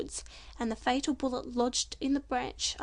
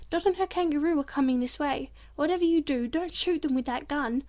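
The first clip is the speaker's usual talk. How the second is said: excited bird voice; 2 semitones higher, 5 dB louder than usual. Acted. Bird warns the men.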